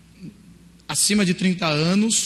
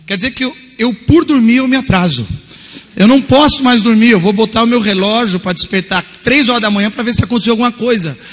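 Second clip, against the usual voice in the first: mock indignation; 3 semitones higher, 6 dB louder than usual. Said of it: "ele tuitou assim".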